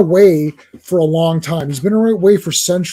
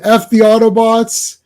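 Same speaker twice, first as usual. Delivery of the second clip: mock yelling; 4 semitones higher, 4 dB louder than usual. Fan voicing a robot cursing the Autobots, mock yelling. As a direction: hammer out each censored curse. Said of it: "he's, like, yelling".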